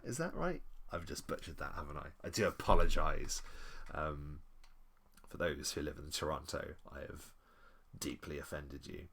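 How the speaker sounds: normal talking voice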